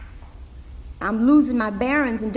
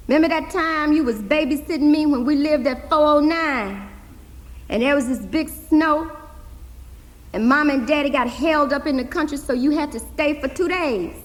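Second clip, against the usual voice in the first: lightly voiced girl, higher; young Hazel pressing; 5 semitones higher than usual. Hazel reminding her uncle of a promise, lightly voiced girl. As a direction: press him like a determined little girl.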